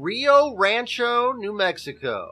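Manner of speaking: drawn-out, grand place name; dramatic announcement. Acted. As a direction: announce it like a big reveal.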